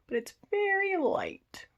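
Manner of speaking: unvoiced, confiding whisper. Real, not acted. Showing viewers her pale brow hairs, whispered. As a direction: let it drop to a secret whisper. Aside about light brow hair.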